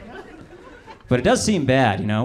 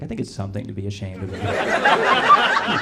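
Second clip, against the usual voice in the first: laughing quote; slower than usual. Retold or imitated. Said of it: "I was like".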